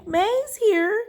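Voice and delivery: high, loud shout of arrival. Acted. May shouting through the window to her family. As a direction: yell it out the window, thrilled. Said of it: "she shouted through the open window".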